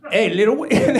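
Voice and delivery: imitating a cholo calling out; cholo-accented mock taunt. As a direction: call over your target like a schoolyard cholo. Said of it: "two cholos dogging me".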